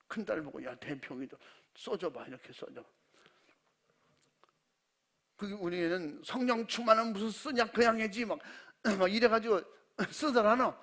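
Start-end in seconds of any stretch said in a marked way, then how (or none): 0.6-2.9 작고 낮게 몰래 부탁하듯; 남이 들을까 조용조용; hushed request. Retold or imitated. Father asks eldest daughter. 6.2-10.7 높고 크게 놀리듯; 장난스럽게 목소리 높여 타박; teasing retort. Retold or imitated. Daughter mocks father's request.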